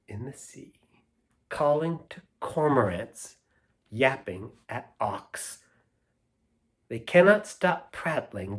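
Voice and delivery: put-on slow, rhythmic read-aloud of a children's poem. Reading a silly poem aloud to the kids, rhythmic and lilting. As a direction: savour each line for the kids.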